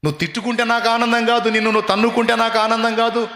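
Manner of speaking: loud, high, fervent sermon voice; full-force preaching. Acted. Preacher urging the congregation to stop cursing themselves, loud and high.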